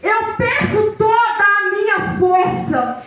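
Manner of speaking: emphatic sermon storytelling; forceful phrases, leaning hard on key words; impassioned preaching. Acted. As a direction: drive the Bible story forward with preacher's fervour.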